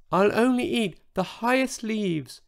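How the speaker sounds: high, small, voiced mock whisper; tiny whisper. A narrator's reading. Huge dinosaur reassures the others, in a tiny mock whisper. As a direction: promise it in a little high voice. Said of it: "he whispered".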